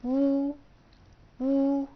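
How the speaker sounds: وو said high and clear as a model; teacher's model of the vowel; model syllable. Shown as a demonstration. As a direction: sound out وو for the class. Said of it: "وهينطق نفس النطق اللي هو".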